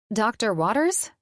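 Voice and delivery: amused, rising question; questioning with a laugh. Acted. Elena echoing Colin's teasing words, amused and questioning. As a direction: echo his words back, half laughing. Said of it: "I questioned with a laugh".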